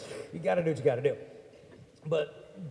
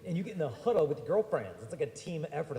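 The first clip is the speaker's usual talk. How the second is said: usual speaking voice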